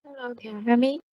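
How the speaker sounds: faint, distant mic voice; very low, hard to hear; barely audible. Real, not acted. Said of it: "But your voice is very low".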